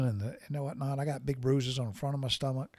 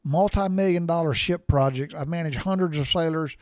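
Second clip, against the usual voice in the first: hollering back; 3 semitones higher, 4 dB louder than usual. Retold or imitated. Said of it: "I'm hollering".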